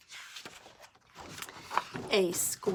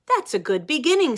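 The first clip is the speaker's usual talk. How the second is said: big sister voice; 5 semitones higher, 7 dB louder than usual. Acted. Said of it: "says his sister".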